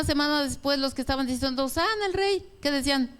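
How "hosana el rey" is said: aclamación alta y jubilosa; aclámalo como la multitud. Retold or imitated. (grito de júbilo de la multitud)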